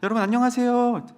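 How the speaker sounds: mock the pastor's greeting back, deadpan; deadpan student mimic. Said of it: "공부하던 친구가".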